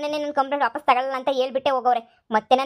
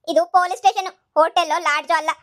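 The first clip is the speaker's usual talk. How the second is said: louder, sharp scolding; officer scolding the family to leave; stern rebuke; 5 dB louder than usual. Acted. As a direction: put them in their place firmly.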